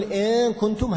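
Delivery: إن كنتم with the نون swallowed into the كاف; faulty merged reading of إن كنتم; wrong idgham. Shown as a demonstration. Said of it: "هذا إدغام".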